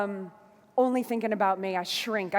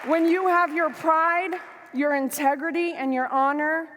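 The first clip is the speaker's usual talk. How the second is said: emotional; 6 semitones higher, 3 dB louder than usual. Real, not acted. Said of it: "I get emotional".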